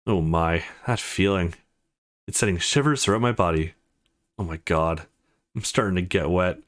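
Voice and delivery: low, mildly moaning delivery; understated low moan of enjoyment; pleasured moaning. Acted. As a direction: murmur it low, lost in the sensation. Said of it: "Is she moaning because".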